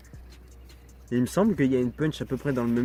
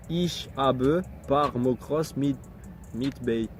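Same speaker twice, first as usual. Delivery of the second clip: put-on German accent; much slower than usual. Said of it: "mon plus bel accent allemand".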